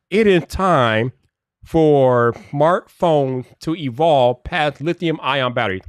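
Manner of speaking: slow, deliberate insistence; measured, insistent declaration; emphatic demand. Real, not acted. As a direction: spell it out slowly for emphasis.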